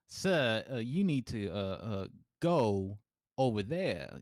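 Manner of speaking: put-on light Southern accent, polite but firm; a hint of a Southern drawl shooing someone off; lightly put-on Southern accent, telling a man to move along. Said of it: "a random Southern accent".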